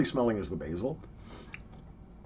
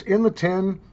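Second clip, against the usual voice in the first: high sing-song; 8 semitones higher, 4 dB louder than usual. Acted. Tin catchphrase called out.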